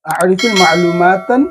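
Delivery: slow, careful Arabic phrase; slow demo. Shown as a demonstration. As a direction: say it slowly for learners. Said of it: "বলবে আ'রিফ". (ধীরে উচ্চারণ)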